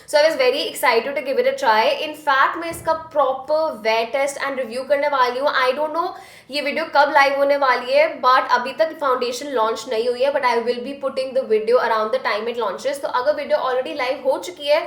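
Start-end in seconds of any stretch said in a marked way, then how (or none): 2.1-10.3 Hindi-English code-switching; switching languages midsentence. Real, not acted. 13.0-14.8 Hindi-English code-switching; switching languages midsentence. Real, not acted.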